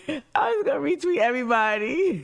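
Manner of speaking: "I'm just gonna retweet everybody" in a high, fast, fake-crying whine; mock sobbing. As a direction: pretend to sob it out, hammed-up despair. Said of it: "same line redone".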